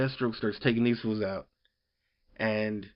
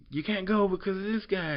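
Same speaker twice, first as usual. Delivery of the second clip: higher mock plea; imitating him; 9 semitones higher than usual. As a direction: pitch up a pleading voice. Voicing him forbidding her.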